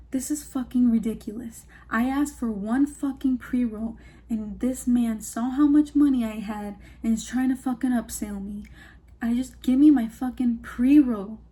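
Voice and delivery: mildly heated retold complaint; triggered customer. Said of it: "he got triggered as fuck".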